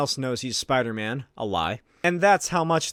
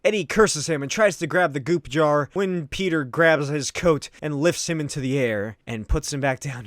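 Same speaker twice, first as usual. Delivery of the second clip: ordinary talk, nothing marked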